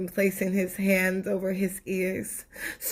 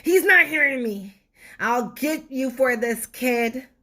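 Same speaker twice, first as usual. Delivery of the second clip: threatening tooth; 3 semitones higher, 4 dB louder than usual. Acted.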